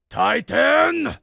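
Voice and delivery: put-on Russian accent. A narrator's reading. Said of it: "Dmitri's voice was deep, tinged with a thick Russian accent".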